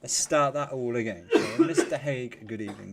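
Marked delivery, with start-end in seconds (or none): 1.3-2.9 slowed-down redo of the hello; calmer restart. Real, not acted. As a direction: take a breath and start the greeting over. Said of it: "take a breather, chill out, and start again".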